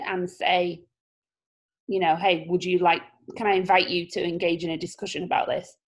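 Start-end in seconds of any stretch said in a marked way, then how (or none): 2.2-5.8 raspy, smoky voice; rough smoker's rasp on the words. Real, not acted. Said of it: "I sound like I've been smoking".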